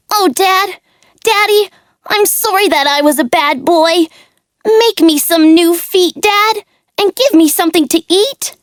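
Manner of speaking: put-on high, pleading little puppet boy; childlike puppet voice. Pinocchio apologises to his father, high pleading child voice. Pinocchio begs for new feet.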